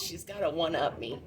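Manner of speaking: loud words breaking into laughter; loud laughing. Real, not acted. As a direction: crack up while teasing. Laughing at her tripping.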